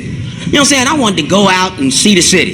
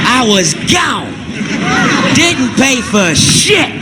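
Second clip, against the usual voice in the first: triumphant punchline; 2 semitones higher, slower than usual. Acted. Punchline of the escape.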